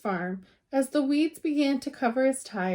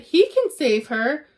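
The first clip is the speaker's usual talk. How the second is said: louder hopeful call; hopeful shout; 3 semitones higher, 6 dB louder than usual. Acted. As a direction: shout it with hope. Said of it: "the farmer shouted".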